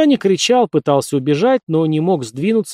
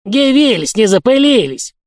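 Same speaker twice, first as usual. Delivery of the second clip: put-on high, loud old-man tenor; old man's high shout; 9 semitones higher, 5 dB louder than usual. A narrator's reading. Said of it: "высоким старческим тенорком закричал". (старческий тенорок, крик)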